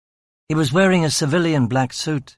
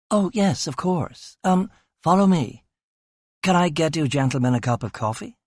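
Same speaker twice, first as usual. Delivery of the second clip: put-on hesitant young woman, a bit higher; flustered receptionist; 4 semitones higher than usual. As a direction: stall the police politely and nervously. Receptionist voiced in story.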